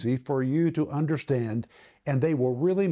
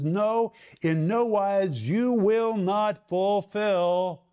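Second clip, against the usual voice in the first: slow, insistent refusal with "No" pitched up; emphatic no; 4 semitones higher, much slower than usual. Acted. Paul saying you will not fulfill the lust, emphatic. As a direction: stretch out "no wise" and "will not", firmly. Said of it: "The word ou is emphatically no".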